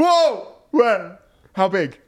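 sharp high startled yelp; screaming at a spider. Real, not acted. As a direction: jump at the news of a spider. Reacting to spider news.

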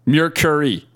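Mercury botched as "MEER-kuh-ree"; failed pronunciation attempt. Real, not acted.

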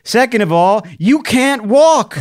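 high, loud, incredulous comeback; hammed-up exasperated protest; mock exasperation. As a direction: hammer it out in mock outrage, laughing at the end. Retold exasperated comeback to grandfather.

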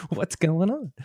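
high, peppy radio greeting; upbeat afternoon voice. Shown as a demonstration. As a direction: bounce up high for a casual hello. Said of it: "I've got my afternoon voice".

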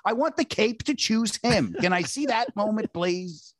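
hammed-up plea to be left alone with the film; mock pleading himself. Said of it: "I go".

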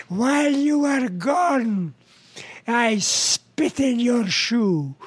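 slow, lightly put-on Arab accent. Arab passenger confesses to his seatmate, light Arab accent. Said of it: "he says to the Jewish guy".

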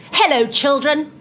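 put-on high, sing-song voice greeting the kids; sweet children's entertainer. Performer greeting children in a high sweet voice. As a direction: coo at the children like a kindly clown. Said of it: "I went".

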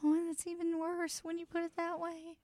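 small, high, appalled squeak; high squeaky dismay. Real, not acted. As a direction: sound horrified in a tiny high voice. Reacts to negative eight degrees.

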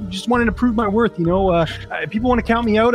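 a hint of a cocky fighter brushing off the haters; T J Dillashaw impression. Playing the former champion on a sports show, cocky and defiant. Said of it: "It's a Dillashaw impression".

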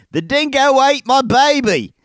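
a hint of a bad Australian accent. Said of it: "not a good Australian accent".

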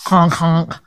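low mock honk of a blown nose; imitated nose-blowing honk. Wife imitating husband blowing his nose, low mock honking. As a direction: honk like a car horn, low. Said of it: "What, am I, a car now?".

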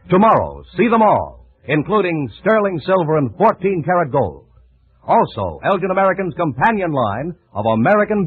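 polished announcer selling compacts; ad read. Acted. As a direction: sell it like a radio commercial.

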